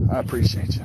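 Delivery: breathless after landing fish; winded, catching breath. Real, not acted. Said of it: "I'm out of breath".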